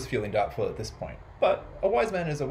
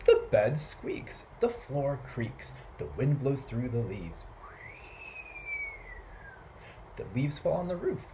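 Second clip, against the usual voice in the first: put-on complaining old man; 4 dB quieter than usual. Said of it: "And Peter said".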